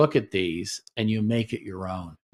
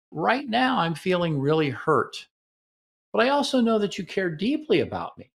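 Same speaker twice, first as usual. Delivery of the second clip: gentle honest statement; 6 semitones higher than usual. Shown as a demonstration. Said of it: "the antidote for this is".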